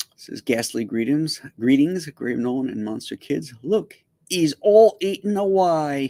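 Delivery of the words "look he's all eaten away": put-on Cockney accent, words drawn out long. Greeting people who are here by name, then speaking in a Cockney accent. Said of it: "How'd you like my Cockney accent?".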